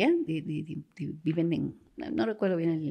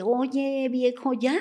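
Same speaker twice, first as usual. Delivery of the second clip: higher, drawn-out call to someone inside; 7 semitones higher, 3 dB louder, much slower than usual. Retold or imitated. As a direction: imitate a wife calling through a door. Wife calls to husband inside bathroom.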